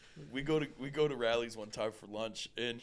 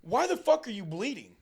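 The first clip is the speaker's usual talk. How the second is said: alarmed question; 8 semitones higher, 5 dB louder than usual. Retold or imitated. Alarmed question to bleeding friend.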